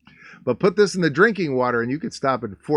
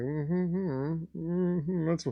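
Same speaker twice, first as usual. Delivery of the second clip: mock smug guy; 4 semitones higher, slower than usual. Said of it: "He's like".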